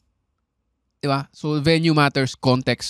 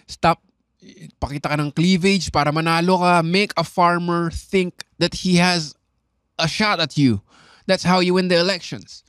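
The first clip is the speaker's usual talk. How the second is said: imitating Bill Burr; 3 semitones higher than usual. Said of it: "ang sinabi ni Bill Burr".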